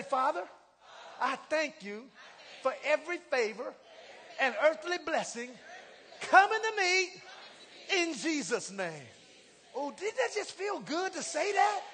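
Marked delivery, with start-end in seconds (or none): 0.0-9.1 rising lines of a spoken prayer; prayer confession. Acted. Preacher leading a confession prayer, rising. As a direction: lead the church in prayer.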